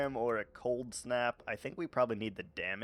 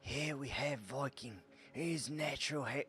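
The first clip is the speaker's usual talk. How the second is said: lightly Australian nature-host voice, quieter; accidental Steve Irwin Australian accent; 3 semitones higher, 6 dB quieter than usual. Pretend. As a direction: slip into an Australian wildlife-host accent by mistake. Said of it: "I'm doing a Steve Irwin accent".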